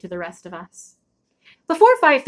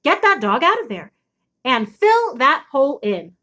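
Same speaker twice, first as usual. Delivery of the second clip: mother's order; 3 semitones higher than usual. Acted. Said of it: "she called".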